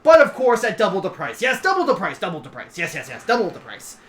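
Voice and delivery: dragon head bursting in high and loud, then subsiding; spring the catch eagerly, repeating as it tapers; King Sideshow. Acted. Dragon king names his price, loud eager chatter settling. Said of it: "He goes".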